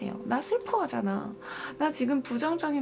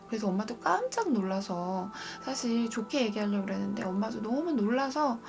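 normal talking voice

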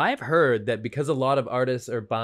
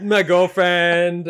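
slow emphasis; 4 semitones higher, 7 dB louder, much slower than usual. Real, not acted. Laughing reply to a tease.

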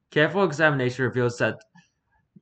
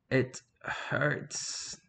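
whisper; 2 semitones higher, 7 dB quieter than usual. Acted. Eerie whispered email line.

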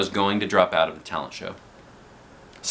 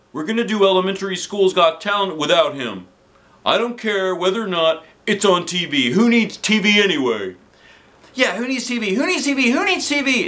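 high, loud rallying chant; rallying cry; 12 semitones higher, 4 dB louder than usual. A narrator's reading. Staff rallying against TV, loud chant. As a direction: rouse the crowd.

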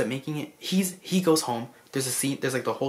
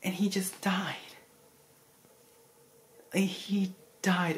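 breathy, half-whispered, higher than usual; hushed disbelief; 6 semitones higher, slower than usual. Real, not acted. Movie fan revealing the hero's death, hushed and whispery. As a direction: let the words out in a drawn, whispery hush. Telling the film's tragic ending.

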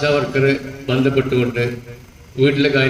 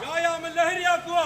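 shouted slogan; 2 semitones higher than usual. Real, not acted. Leader shouts rally slogan.

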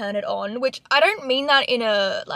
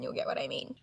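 soft unvoiced whisper of "you'll get what I mean"; 11 dB quieter than usual. Shown as a demonstration. Repeats line, whispered.

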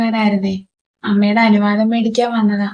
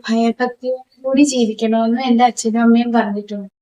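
softer, prim and obedient; demure soft voice; 2 semitones lower, 6 dB quieter than usual. Acted. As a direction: recite the rules like a model daughter. Girl recites her parents' lessons.

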